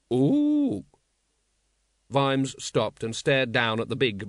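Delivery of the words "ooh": very high, louder ape hoot; a squealing orangutan ooh, pitched way up. Acted. Librarian reacts to paying.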